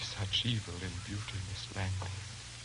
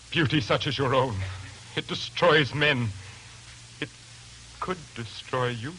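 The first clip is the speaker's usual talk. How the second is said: menacing intensity; 4 semitones higher than usual. Acted. Lodger's menace rises.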